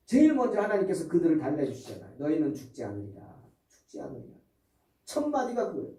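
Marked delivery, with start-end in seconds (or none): 2.2-4.3 hushed, tender reassurance, trailing into a whisper; calm the frightened prophets softly; soothing God. Retold or imitated. God comforting trembling prophets, hushed and tender.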